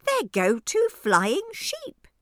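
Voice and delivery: high, slow, amazed shout; crying out. Acted. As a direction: call out in amazement. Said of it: "cry out".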